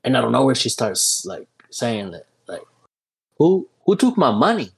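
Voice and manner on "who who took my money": angry lady. Retold or imitated. Lady accusing them, acted quote.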